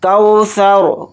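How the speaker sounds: कौसर ending on a stopped, vowelless रा; silent ra stop. Shown as a demonstration. Teacher showing the pause form of कौसर. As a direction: close कौसर on a sakin रा, falling. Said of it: "रा को हमने साकिन कर दिया है".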